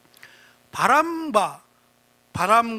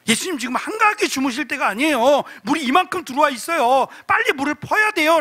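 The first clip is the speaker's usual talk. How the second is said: higher-pitched urging, building toward the end; acted urgent appeal, pitch climbing; urgent plea; 4 semitones higher than usual. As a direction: urge a sleeper to get up and help. Acted disciples urgently waking Jesus.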